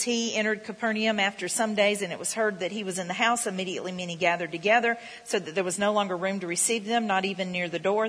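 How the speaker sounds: measured pulpit reading of the Bible; scripture reading. Acted. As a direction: read the verse out to the congregation. Reads scripture aloud.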